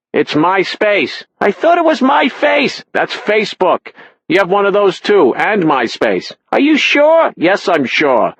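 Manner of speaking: high, loud squabbling mother; bickering parents. A narrator's reading. Mother argues with father in the background, shrill and loud. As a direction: quarrel across the room.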